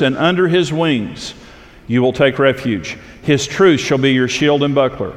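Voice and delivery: measured psalm reading to the congregation; scripture reading. Acted. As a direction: read it out like scripture from the pulpit. Reads the psalm aloud.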